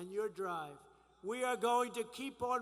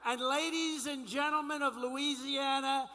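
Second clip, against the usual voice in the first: rally speech. Acted.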